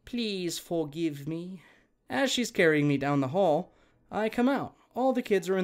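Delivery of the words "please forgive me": apologetic. Retold or imitated. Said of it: "She's hugging me and crying".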